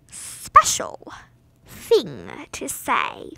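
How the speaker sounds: slow secret whisper. Pretend. Playful secret announcement.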